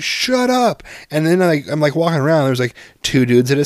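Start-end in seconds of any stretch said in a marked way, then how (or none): 0.0-0.8 high, loud retold snap; mock snap. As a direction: bark it back at the kid, half-joking. Snapping at whining kid.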